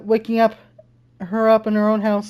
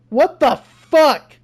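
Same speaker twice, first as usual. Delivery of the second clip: slow, drawn-out shocked curse; stunned; 3 semitones higher, 4 dB louder, much slower than usual. Real, not acted. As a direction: let the shock stretch the words. Shocked by the poem.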